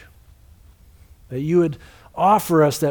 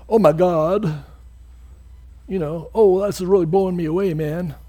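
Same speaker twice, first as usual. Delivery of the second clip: casual slang. Retold or imitated. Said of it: "No, that's not what he's saying".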